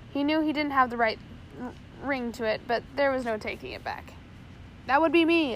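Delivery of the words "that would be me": thundered. A narrator's reading. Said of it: "a deep voice thundered back".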